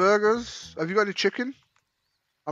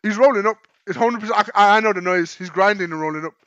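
much higher and louder, gleeful and insistent; excited shouting; 6 semitones higher, 13 dB louder than usual. Real, not acted. Streamer yelling that the guy is rolling up, gleeful shout. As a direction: shout it out, sure you caught him.

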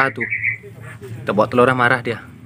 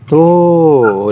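drawn-out, louder, higher "tuh"; excited pointing-out; 4 semitones higher, 5 dB louder than usual. Real, not acted. Keeper alerts viewers to hatching eggs, excited call. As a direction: call it out long and loud. Spots first sign of hatching.

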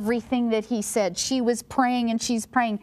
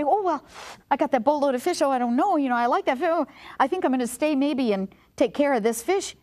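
higher-pitched, wishy-washy hedging; mock reluctance; 5 semitones higher, faster than usual. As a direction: act out someone making lame excuses. Imagined reluctant disciples hedging.

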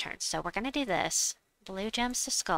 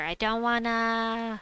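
whiny; 4 semitones higher, 4 dB louder, slower than usual. Real, not acted. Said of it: "I have to do Drake Rider".

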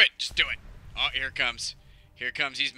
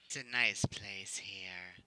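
slow breathy whisper; 4 semitones lower, 7 dB quieter, slower than usual. Pretend. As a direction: whisper it secretly. Whispered aside.

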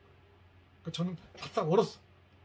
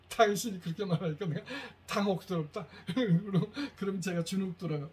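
laughing. Real, not acted. Demo of wife's phrase, laughing.

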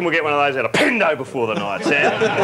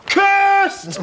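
high, loud dramatic cry; dramatic headline shout; 13 semitones higher, 4 dB louder than usual. Pretend. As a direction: bellow it like a doom headline. Reading a tabloid headline.

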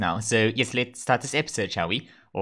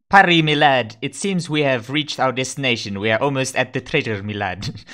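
put-on hearty pirate accent, loud opening call; mock pirate accent; 2 semitones higher, 6 dB louder than usual. Captain telling his parrot they have nearly arrived, mock pirate accent. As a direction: announce it in an amateurish pirate accent. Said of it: "I'm not sure if I'm doing that accent right".

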